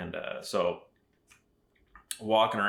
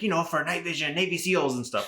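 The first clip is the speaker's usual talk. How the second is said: imitating the vendor lady, pitched higher; mock Asian accent; 7 semitones higher than usual. Vendor lady name-dropping Navy seals, mock Asian accent. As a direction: sell it like the Asian saleswoman. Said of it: "excuse my terrible accent".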